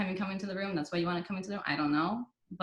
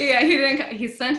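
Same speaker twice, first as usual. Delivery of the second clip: laughing through words; 8 semitones higher, 12 dB louder than usual. Real, not acted. Laughs recalling doctor not returning.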